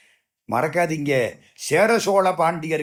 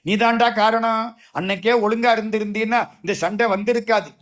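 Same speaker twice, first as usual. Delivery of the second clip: higher, fast rebuke; scolding; 6 semitones higher, faster than usual. Retold or imitated. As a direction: blame him straight to his face. Sanjaya scolds Dhritarashtra. (Sanjayan திருதராஷ்டிரனை வேகமாகக் கடிந்துகொள்ளும் குரல்)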